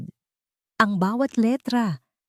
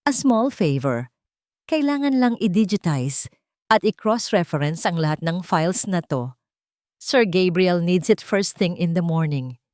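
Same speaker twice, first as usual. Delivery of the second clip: sweet but venomous. Acted. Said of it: "matamis ngunit makamandag na ngiti".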